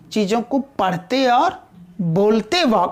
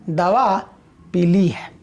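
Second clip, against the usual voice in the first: "पी ली" joined into one word, lower; शब्दों का संगम; 5 semitones lower, slower than usual. Shown as a demonstration. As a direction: run "पी ली" together like पीली, the colour. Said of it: "पी और ली का संगम कर दिया". ("पी ली" को जोड़कर "पीली" जैसा बोलें)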